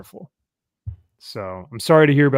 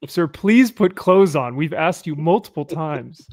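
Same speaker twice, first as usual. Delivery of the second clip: exasperated boater; 4 semitones higher, 3 dB louder than usual. Retold or imitated. Boater scolds skinny dipper.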